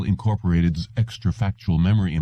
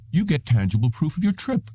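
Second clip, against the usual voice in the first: emphatic; 7 semitones higher than usual. A narrator's reading. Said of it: "disagreed emphatically".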